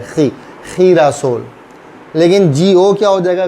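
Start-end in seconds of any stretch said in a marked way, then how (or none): 0.0-1.5 खी, खीरासोल with a throaty KH; GI as KHEE. Shown as a demonstration. Teacher explaining GI to learners, खी said as KHEE. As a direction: slowly model खी, then खीरासोल starting KHEE. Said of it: "जी आई क्या हो जाएगा?".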